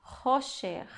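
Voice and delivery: Rocher read out slowly and carefully; Hebrew pronunciation demo. Shown as a demonstration. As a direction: model the Hebrew word Rocher for learners. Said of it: "como nós vamos ler essa palavra".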